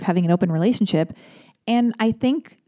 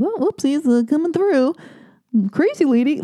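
higher, ditzy sing-song mock voice; silly flustered voice; 7 semitones higher than usual. Passing the young man on the stairs, ditzy high voice. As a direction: play the flustered crazy lady. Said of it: "I was like".

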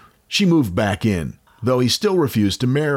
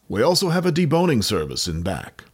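lightly voiced shopkeeper, pitched up; Chillingsworth; 4 semitones higher than usual. Co-host adds to the haberdashery joke, attempted character voice. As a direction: put on a higher mock sales voice. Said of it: "trying to do a Chillingsworth voice".

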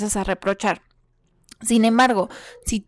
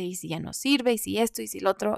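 hushed worried what-ifs; softly voiced spiralling worry; anxious inner voice; 7 dB quieter, faster than usual. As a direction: murmur the fears to yourself. Imaginándote.

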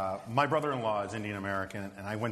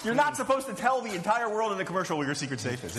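high, incredulous exasperation; can't believe anyone would do this; exasperated; 8 semitones higher than usual. Real, not acted. Exasperated rant about the ad.

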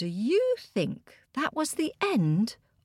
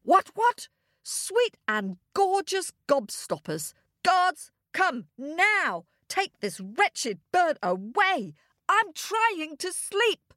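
exasperated king, high and drawn-out; splutter, then order the guards with long stressed words; pitched-up royal outburst; roaring king; 6 semitones higher than usual. A narrator's reading. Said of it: "roared the king".

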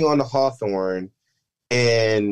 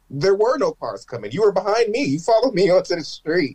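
higher-pitched indignant arguing; retold protest; 8 semitones higher than usual. Driver disputes a traffic stop with the cop, protesting. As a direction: argue back in disbelief, a laugh slipping in.

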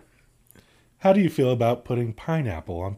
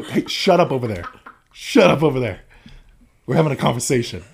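mock telling off; 2 semitones higher, 6 dB louder than usual. Mock scolding the others.

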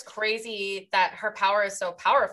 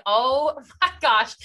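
laughing; 6 semitones higher, 8 dB louder, slower than usual. Retold or imitated. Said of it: "that is terrifying".

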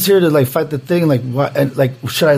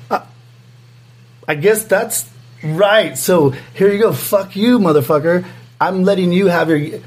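imagined judge rant; 2 semitones higher than usual. Retold or imitated. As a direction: play the judge gloating, pitched up. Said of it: "I'm like".

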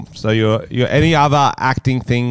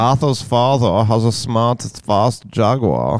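American accent try; slower than usual. Shown as a demonstration. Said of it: "Let's hear it".

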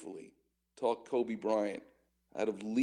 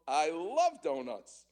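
eager relish; 3 semitones higher, slower than usual. Retold or imitated. Student answers driver's donut question.

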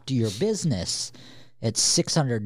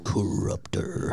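whisper; 5 semitones lower, 4 dB quieter, slower than usual. Pretend. Echoing the title in whisper.

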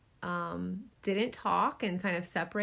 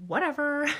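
eye-roll whatever; 7 semitones higher, 5 dB louder than usual. Retold or imitated. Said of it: "be like".

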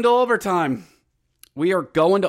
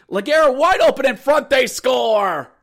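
raised, louder call of the goal; excited goal call; 5 semitones higher, 5 dB louder than usual. Retold or imitated. Calls an opposing goal live.

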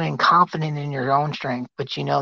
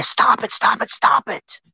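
urgent rebuke; 7 semitones higher than usual. Real, not acted. Preacher rebukes congregation.

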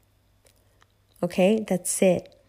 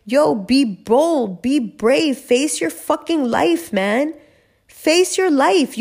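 fired-up urging; 4 semitones higher, much slower than usual. Real, not acted. Urging listener to be bold.

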